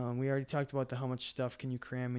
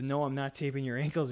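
ordinary delivery

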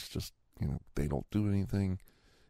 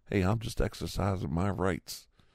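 normal talking voice

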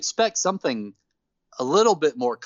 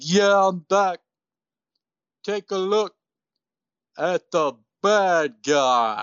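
worst, dumbest, terrible fake Cuban accent. Imitating the man who is not Scott Hall addressing a crowd, in the worst, dumbest Cuban accent. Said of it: "like the worst, dumbest Cuban accent you've ever heard".

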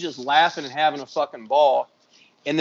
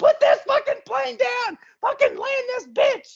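very high, frantic, panicked screaming. Recalling a terrifying plane ride and landing: retelling own screaming. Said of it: "I'm screaming like a little bitch".

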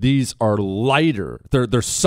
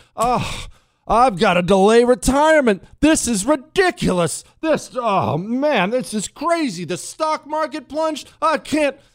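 very high, slow, drawn-out, put-on whining; 13 semitones higher than usual. Retelling what an old man in the neighborhood said: imitating someone complaining. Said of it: "complaining now".

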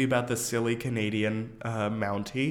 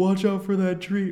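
put-on yell, higher and louder; 8 semitones higher, 5 dB louder than usual. Retelling what the family would yell: imitating family yelling. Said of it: "we would yell".

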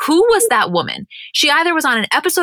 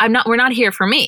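ordinary talk, nothing marked

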